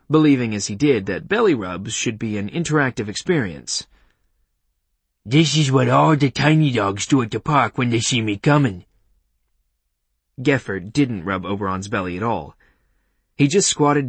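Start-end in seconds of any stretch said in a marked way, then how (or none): 5.3-8.9 cheerful cartoonish dog voice; playful talking dog. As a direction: speak as a pleased, proud dog. The dog's voice in story.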